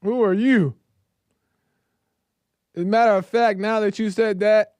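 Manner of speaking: high, loud scornful challenge; a king insulted, lash back; indignant Pharaoh. Retold or imitated. Pharaoh rebuffing Moses and Aaron, loud and indignant.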